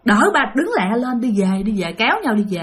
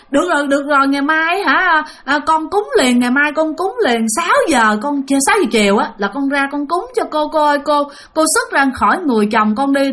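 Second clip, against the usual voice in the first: anxious pleading; 4 semitones higher than usual. Retold or imitated. Frightened mother promises spirit offerings.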